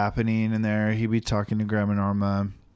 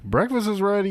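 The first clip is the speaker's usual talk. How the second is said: dad calling out; 10 semitones higher than usual. Retold or imitated. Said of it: "He's like".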